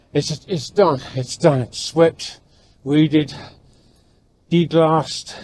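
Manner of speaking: speaking with a dry mouth; sticky dry-mouthed words. Real, not acted. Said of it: "my mouth is so dry".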